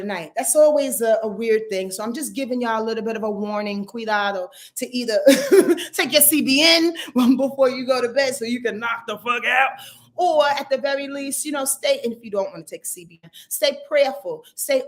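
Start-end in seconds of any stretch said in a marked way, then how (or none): 5.2-9.7 loud burst of laughter into words; real laughing. Real, not acted. Warning viewers about restless sleep, laughing. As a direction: crack up while giving the advice.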